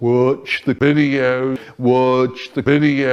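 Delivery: put-on spooky voice. Retelling what a rich boy said while holding a phone: imitating a spooky voice. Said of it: "he starts talking in his spooky voice".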